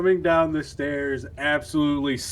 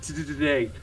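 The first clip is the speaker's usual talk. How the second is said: teeth chattering with cold; shivering stutter; 3 dB quieter, faster than usual. Acted. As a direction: stammer through the shivers. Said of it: "I'm shivering".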